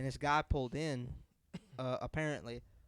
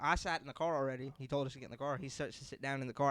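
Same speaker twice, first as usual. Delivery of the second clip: normal talking voice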